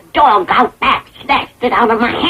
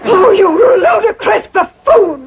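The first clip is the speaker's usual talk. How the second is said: indignant outburst; 5 semitones higher than usual. Acted. Acted outburst at the clumsy host.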